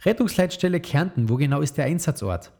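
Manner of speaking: high, friendly dispatcher answering. Acted. The emergency dispatcher answers Mama's call in a friendly tone. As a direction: greet the caller kindly and helpfully. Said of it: "eine freundliche Stimme".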